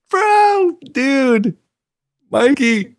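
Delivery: high excited stoner bro greeting; gym bro. Retold or imitated.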